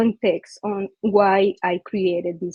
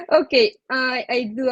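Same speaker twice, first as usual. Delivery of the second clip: laughing; 4 semitones higher than usual. Real, not acted. Presenter laughing, embarrassed.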